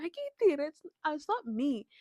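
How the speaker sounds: high, pleading protest; mother in labor telling the doctor her body is pushing, high and pleading. Retold or imitated. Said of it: "I'm telling him".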